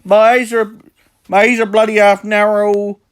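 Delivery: high mock-Welsh accent; Taffy. Shown as a demonstration. Mocking a YouTuber's looks, high exaggerated Welsh accent. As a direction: put on a sing-song Welsh voice, pitched high. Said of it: "Just doing a, uh, Taffy impression".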